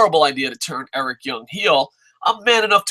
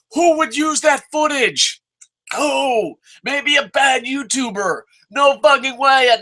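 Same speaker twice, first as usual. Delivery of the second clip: higher, incredulous demand; indignant raised question; exasperated rant; 6 semitones higher than usual. Real, not acted. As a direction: fire the question at them. Ranting at the show.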